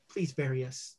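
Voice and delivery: a dead husband's hushed last request; quiet ghost plea. Acted. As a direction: beg them softly to bury you. Ghost asks to be buried.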